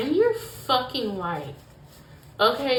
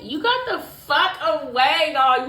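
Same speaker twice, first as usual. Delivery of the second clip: excited shout; 5 semitones higher, 6 dB louder than usual. Real, not acted.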